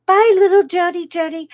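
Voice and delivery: high, loud farewell call; calling to a child. Retold or imitated. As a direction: imitate grown-ups calling bye to a little girl. Retold group calling goodbye to child.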